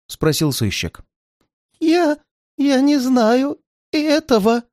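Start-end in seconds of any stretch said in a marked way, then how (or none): 1.8-4.6 высоко, медленно, запинаясь; запнись от страха; заплетающимся языком. A narrator's reading. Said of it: "заплетающимся языком". (запинаясь от испуга)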